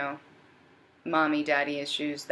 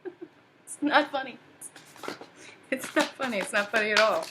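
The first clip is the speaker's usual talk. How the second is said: mock whiny voice; 7 semitones higher than usual. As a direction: whine it in a silly pouty voice. Scolds own laughter, mock voice.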